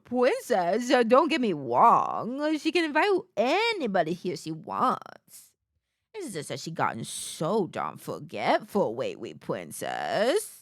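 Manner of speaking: mock drawled old-timey accent; imitating her accent. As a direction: parrot the landlady's odd accent. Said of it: "His accent is giving".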